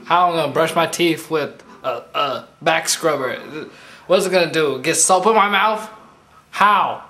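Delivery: shouting in mock outrage; loud exasperated rant. Friend yelling at a silly skit in mock outrage. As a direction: yell it like you can't believe it.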